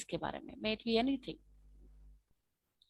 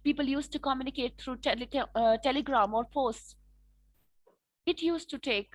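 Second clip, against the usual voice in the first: slow model answer; much slower than usual. Shown as a demonstration. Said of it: "supporting point start करना है".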